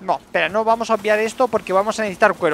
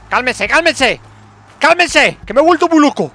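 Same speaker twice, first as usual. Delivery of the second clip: frantic plea; 5 semitones higher, 7 dB louder than usual. Real, not acted. Panicking mid-fight.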